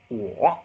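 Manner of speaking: dip-and-rise "Wo"; third tone. Shown as a demonstration. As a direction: dip "Wo" down and back up. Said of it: "third tone".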